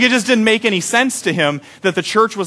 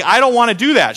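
higher, louder panicked whine; freaking out; 6 semitones higher, 5 dB louder than usual. Retold or imitated. Pastor panicking to his wife about cleaning, mock whine. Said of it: "I'm freaking out".

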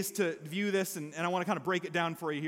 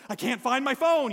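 louder, frantic retelling; stressed outburst; 4 semitones higher, 6 dB louder than usual. Retold or imitated. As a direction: play the panicked husband who can't find it. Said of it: "when you get stressed".

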